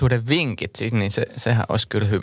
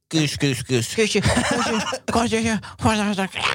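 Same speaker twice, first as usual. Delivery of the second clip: calling a cat; 10 semitones higher than usual. Shown as a demonstration. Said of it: "kukaan sössöttäisi kissalle".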